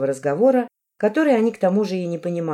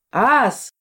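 loud, higher exclamation; exclaiming; 6 semitones higher, 5 dB louder than usual. A narrator's reading. Someone in the crowd hears the returned man's name, exclaiming. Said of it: "воскликнул кто-то в толпе".

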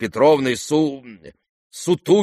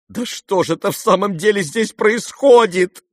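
high, loud exasperated outburst; boiling over; 10 semitones higher, 4 dB louder than usual. A narrator's reading. Kolya boils over at his father, high and loud. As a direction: son losing patience. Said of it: "Закипел вдруг Коля".

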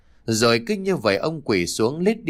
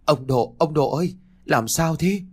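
worried call; 3 semitones higher than usual. A narrator's reading. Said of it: "lo lắng gọi to".

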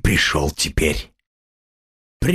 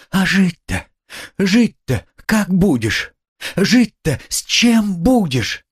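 higher, slow, pleading; distraught exclaiming; 8 semitones higher than usual. A narrator's reading. Sonya fearing for his life, distraught exclaiming. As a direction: cry out in despair. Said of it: "восклицала Соня".

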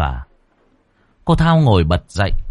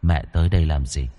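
low, much softer hollow voice of a dead son; eerie ghost child; 6 semitones lower, 3 dB quieter than usual. Acted. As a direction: speak like a ghost come home at night. Ghost son asks mother. (giọng hồn ma đứa con, trầm và nhỏ)

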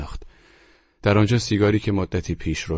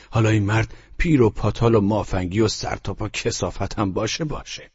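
agitated Arthur; 3 semitones higher than usual. Acted. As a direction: pour out the bitter complaints, heated. Arthur ranting on phone. (صدای برافروخته و عصبی آرتور پشت تلفن)

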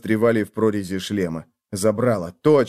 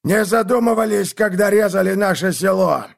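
bitter accusation; 8 semitones higher, 3 dB louder than usual. Acted. Old archer accuses.

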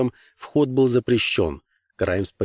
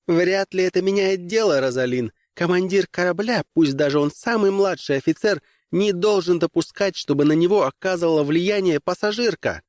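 a hint of a stern official woman, raised pitch; lightly voiced commissar; 8 semitones higher than usual. Commissar scolding the young woman, lightly voiced and stern. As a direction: lecture coolly from above.

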